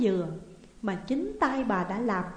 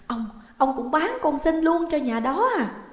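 loud, high accusing cry; stammer, then shout in horrified disbelief; screaming; 7 semitones higher, 6 dB louder than usual. A narrator's reading. Wife suddenly understands husband sold Sinh too, screaming. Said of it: "bà gào lên".

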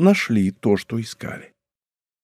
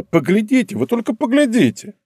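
1 astonished exclaim; 9 semitones higher than usual. A narrator's reading. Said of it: "забывшись, толкнула королеву локтем и проговорила".

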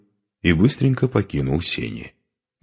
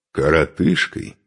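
offended echo. Acted. Short man echoing the insult, slow offended "коротышкой". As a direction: repeat "коротышкой" slowly, weighing the insult.

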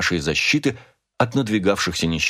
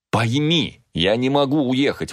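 higher-pitched, mildly urgent plea; exclaimed plea; 5 semitones higher than usual. A narrator's reading. Husband tells Rachel he cannot leave, exclaiming. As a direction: plead to be understood, voice lifted. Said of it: "воскликнул я".

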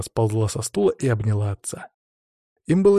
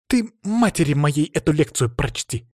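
snapping; 4 semitones higher than usual. Acted. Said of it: "огрызнулась девочка".

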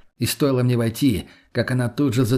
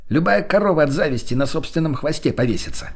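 gleeful boast; 4 semitones higher than usual. Acted. Delighted boast continues.

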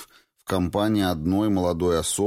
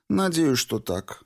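put-on higher young woman's voice, lightly teasing reproach; 10 semitones higher, slower than usual. A narrator's reading. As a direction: Valentina scolding her old friend Clifford, higher and reproachful. Valentina continues.

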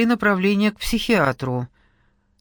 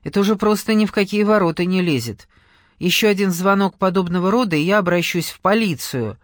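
harsh, louder threatening tone; annoyed threat; sharp and unpleasant; 3 dB louder than usual. Acted. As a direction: warn her off bluntly. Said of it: "Он зазвучал резко и неприятно".

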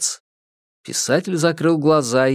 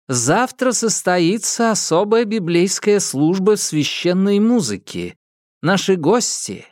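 fervent televangelist sermon; preaching; 6 semitones higher than usual. Acted. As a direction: preach it to the faithful with fire. Preacher announces service. (проповедь телепроповедника)

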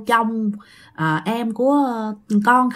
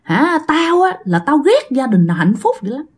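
put-on growling old ghost. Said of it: "Nói vậy nè".

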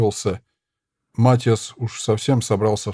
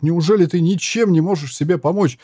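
higher and louder, pleading outcry; protesting shout; 6 semitones higher, 4 dB louder than usual. Acted. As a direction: shout at her to save herself. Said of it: "протестующе выкрикнул наёмник". (наёмник протестует и кричит волшебнице: громкий отчаянный крик)

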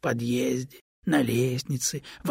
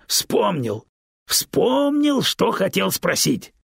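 building to a much louder, higher happy shout; joyful yelling; 8 semitones higher, 6 dB louder, slower than usual. A narrator's reading. Stone overjoyed to remember his question, rising glad shout. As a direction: crow with growing delight. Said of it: "завопил камень радостно".

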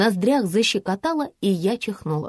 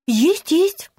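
higher, louder happy «есть, есть»; delighted; 8 semitones higher, 5 dB louder than usual. A narrator's reading. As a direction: blurt it out gladly. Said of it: "обрадовалась блондинка". (радостно, звонко)

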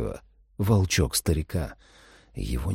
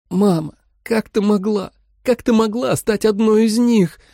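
higher, hurt asking; plaintive plea; 13 semitones higher, 3 dB louder than usual. A narrator's reading. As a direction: plead with a breaking heart. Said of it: "жалобно спросила Джулия".

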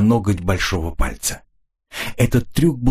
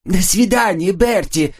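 higher, excited squeal of a farewell; squealing goodbye; 11 semitones higher than usual. Acted. Woman squealing goodbye to Bertie at the car. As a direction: shriek it out merrily like a tipsy woman. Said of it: "взвизгнула женщина".

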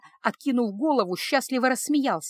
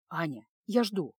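ordinary delivery, nothing marked

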